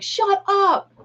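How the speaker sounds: high squealed disbelief; shocked shut up. Retold or imitated. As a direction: shriek it like she can't believe it. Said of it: "She's like".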